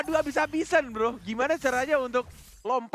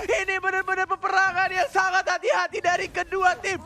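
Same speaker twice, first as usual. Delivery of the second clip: excited casting; 7 semitones higher than usual. Real, not acted. Caster hype as fight starts.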